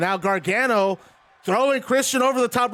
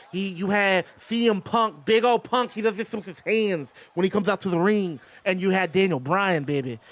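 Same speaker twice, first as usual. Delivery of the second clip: lightly voiced Southern wrestling promo; Dusty Rhodes voice. Streamer paying off a channel point redemption, doing a light Dusty voice. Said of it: "use a dusty voice".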